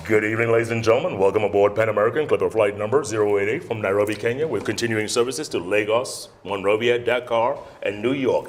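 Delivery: smooth, measured captain-style cabin announcement; airline PA announcement. Shown as a demonstration. Trainee on the plane microphone, announcer voice. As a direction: read it like a flight attendant on the PA. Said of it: "I'm acting, let me act".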